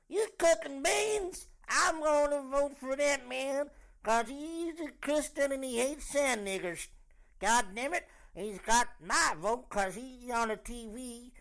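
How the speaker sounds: high, loud hammed-up American hick; redneck voter. Comic mocking a Trump voter, high hammed-up redneck voice. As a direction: holler it like a mock redneck.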